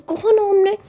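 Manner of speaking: sharp, high-pitched threats; a hammed-up angry warning; angry scolding. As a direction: scold her into silence. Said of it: "तो बोलती".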